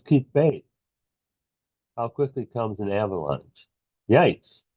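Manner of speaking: measured poem read in short phrases; poetry reading. Acted. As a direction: let each line fall, pausing between phrases. Reads second poem aloud.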